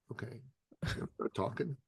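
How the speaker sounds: under his breath, to himself; muttered aside, barely voiced; hushed inner thought. Telling the host his silent thought, hushed.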